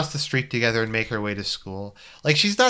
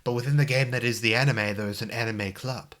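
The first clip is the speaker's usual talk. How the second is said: put-on old-school Virginia accent. Commenting on the self-referential game, Virginia accent. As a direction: hold forth like a bad Civil War movie Virginian. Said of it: "old school Virginia".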